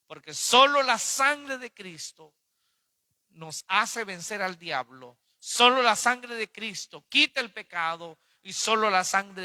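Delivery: slow, forceful declaration, loud on key words; emphatic preaching. Real, not acted. Preacher declaring Christ's saving blood to the congregation, emphatic.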